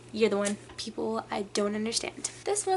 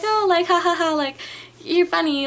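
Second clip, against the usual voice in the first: awkward laughing; 7 semitones higher, 7 dB louder than usual. Retold or imitated. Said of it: "awkward laughing".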